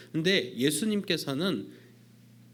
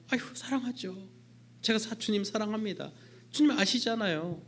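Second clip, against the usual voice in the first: Peter protesting; 6 semitones higher than usual. Acted. Peter answering again.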